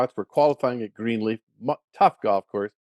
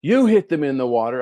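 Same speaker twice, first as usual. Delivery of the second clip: louder, retold protest; mustered-up courage; 3 semitones higher, 6 dB louder than usual. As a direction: stand up to the big guy. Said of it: "I finally muster up enough courage".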